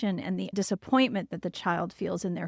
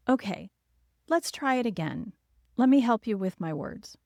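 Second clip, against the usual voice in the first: calmly coaxing a frustrated preschooler; a parent modelling calm help; gentle, patient parent. Shown as a demonstration. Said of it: "That's how I would say it".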